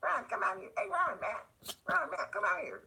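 high, loud calling voice; Mike Terneski voice. Retold or imitated. Skater calling Ron out to the parking lot, high and loud. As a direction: call out to Ron in a high hollering voice. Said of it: "I'll do the Mike Terneski voice".

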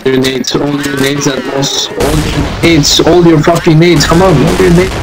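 building to a shout; frantic yelling. Real, not acted. Urging team to use grenades.

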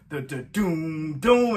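low, slow vocal drum hits; imitated drum. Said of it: "I wish they had a drum".

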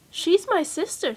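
the other little one, taking her time; baby chipmunk. Acted. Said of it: "said the other".

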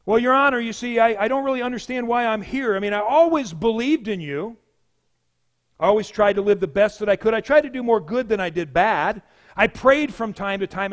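lightly acted courtroom pleading; mock lawyer voice. Sinner makes excuses before God, lightly acted lawyer voice. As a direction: argue like an amateur defense lawyer. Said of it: "in his best lawyer voice".

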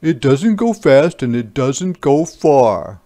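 lightly voiced doubtful dad; a hint of a fretting father; worried papa. Papa still speaking.

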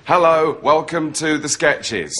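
mock autocue presenter; slow, stilted read to camera. Mocking partner's ideal sketch show, autocue reading. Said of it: "reading the scripts to camera on auto cue".

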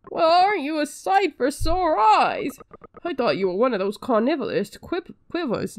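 lightly voiced quack doctor, lisping; a hint of a lisping doctor greeting the hero; character with a lisp. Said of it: "He's got a, a weird lisp now".

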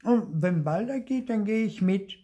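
put-on high, loud, defiant little boy; a child digging in his heels, mildly voiced; defiant call. Theo to his mother, threatening to leave, defiant. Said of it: "ruft Theo trotzig".

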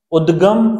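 उद्गम with a clear द before the ग; careful pronunciation. Shown as a demonstration. Teacher modelling उद्गम for students, careful pronunciation. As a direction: sound out उद्गम crisply. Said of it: "मैं आपको उच्चारण करके बता देता हूँ".

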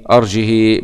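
أرجه without hamza, long "hii" ending; kasra with sila. Shown as a demonstration. Teacher comparing with Qalun, أرجه with added long "hii". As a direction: stretch the last vowel of أرجه. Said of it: "بنزيد الصلة".

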